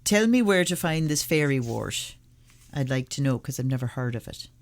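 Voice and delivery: lightly attempted Irish accent; terrible Irish accent. Reader asks where fairy wart is found, terrible Irish accent. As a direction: have a go at a bad Irish accent. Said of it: "In my terrible Irish accent".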